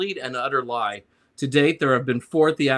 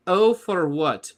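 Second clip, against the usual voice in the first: Jean Girard quote; 5 semitones higher, slower than usual. Retold or imitated. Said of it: "Jean Girard".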